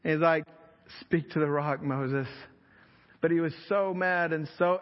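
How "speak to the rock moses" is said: a patient second chance, eased off; gracious reminder. Retold or imitated. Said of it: "God gave him a moment of grace".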